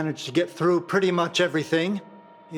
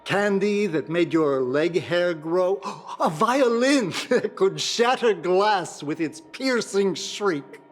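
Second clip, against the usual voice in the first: laughing fondly; 2 semitones higher than usual. Acted. Fond memory of bizarre gifts.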